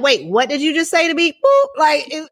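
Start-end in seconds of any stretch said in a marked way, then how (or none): 0.0-1.3 playful imitation of someone about to snap; a touch of street challenge, half laughing; mock confrontation. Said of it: "You'd be like". 1.3-1.7 loud high bleep over a cuss word; imitated censor bleep. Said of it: "there was a cuss word".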